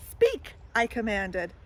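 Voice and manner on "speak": high, loud pet command; girl commanding her sloth before an audience. Acted. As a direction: call the order to the sloth.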